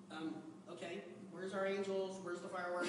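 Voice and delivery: low, let-down puzzlement; deflated letdown. Retold or imitated. Groom at the altar, quietly let down. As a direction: sound let down, quietly asking.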